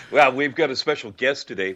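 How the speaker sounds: booming hype-man intro, lightly done; announcer voice. Pretend. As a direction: announce the guest like a show host. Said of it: "I went to announcer voice there".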